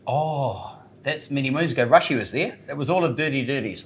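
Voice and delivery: slightly slurred, loose words; slurring. Real, not acted. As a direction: let the consonants smear a little. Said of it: "am I slurring?".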